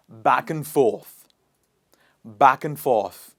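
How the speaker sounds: loud, slow "back-un-forth"; AND weakened between back and forth; repeat-after-me model. Shown as a demonstration. Teacher models the next example, loud slow weak AND. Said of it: "Repeat after me".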